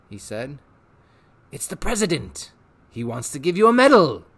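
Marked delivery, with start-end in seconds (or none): 1.5-4.2 eager, wheedling showman; a salesman tempting the boy; Rictus voice. Acted. Rictus tempting Harvey with pets, eager showman voice.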